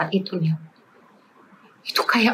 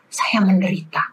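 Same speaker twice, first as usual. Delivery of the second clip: whisper. Retold or imitated. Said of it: "Ngomong sama Tuhan".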